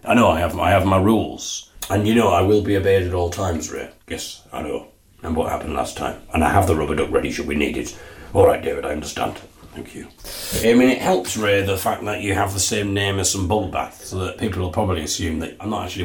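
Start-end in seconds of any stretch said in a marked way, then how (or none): 4.1-10.1 Ray's voice. Acted. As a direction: murmur like a cowed bath toy. Ray answers David.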